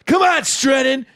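high, urgent gym cheer; pumped-up hype yell. Retold or imitated. Teammates psyching up Strennan to lift, high hype yell. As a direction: holler encouragement like a spotter. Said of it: "getting pumped up".

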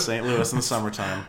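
congested cold voice; stuffy nose. Real, not acted. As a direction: speak through a blocked nose. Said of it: "you got a beaker voice".

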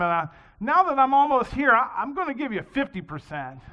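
loud, pleading bargain shouted to the sky; a swimmer haggling with God, pleading loudly. Acted.

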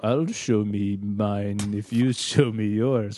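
slow, smug innuendo; mock flirty line. Cohost joking on the quote, slow innuendo. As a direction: draw it out suggestively. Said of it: "And then also".

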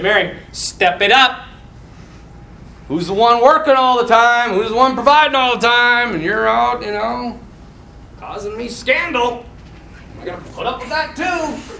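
lightly exasperated husband; hammed-up complaint, mildly heated; mock scolding. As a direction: nag with comic indignation. Joseph imagined scolding Mary.

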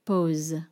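French pause; French pronunciation. Shown as a demonstration. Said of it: "is pause, une pause".

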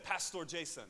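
lightly imitated Kenyan accent. Church student greets his pastor at the door, Kenyan accent. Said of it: "That's my Kenyan accent".

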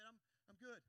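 easy, unforced reply; open, inviting. Shown as a demonstration. Preacher showing open-handed reply, inviting. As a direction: answer openly at normal volume. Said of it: "Isn't this a lot more inviting?".

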